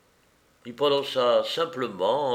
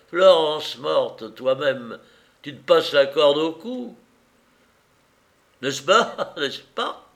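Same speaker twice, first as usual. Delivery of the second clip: taunting laugh; 3 semitones higher, 4 dB louder than usual. Acted. Bandit taunts with cackling.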